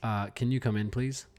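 a weary principal asking a dad to come in; stern principal. Pretend. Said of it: "principal's gonna be like".

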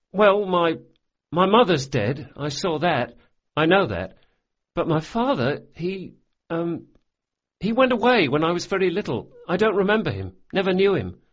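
put-on a boy rushing through sad facts; high boyish voice, a touch sad; boy's voice. Locke speaks of his parents.

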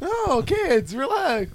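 a hint of a tired schoolteacher calming kids; Missus Krabappel voice. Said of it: "Missus Krabappel when she was teaching".

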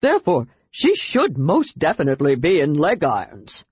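wavering, swooping creature voice; nervous quaver with jumpy pitch. A narrator's reading. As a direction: add it anxiously, like a cowed toady. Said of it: "then added nervously".

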